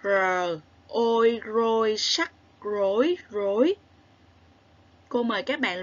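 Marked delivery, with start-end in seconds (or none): 0.0-3.7 R, ôi, rôi, sắc, rối spelled sound by sound; spelling out rối. Shown as a demonstration. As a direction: sound out rối step by step for the class. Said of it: "Các bạn hãy cùng lắng nghe và luyện đọc nhé".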